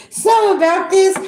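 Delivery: something about this sung up high and bright, a teasing lilt; playful high singsong on something about this. Pretend.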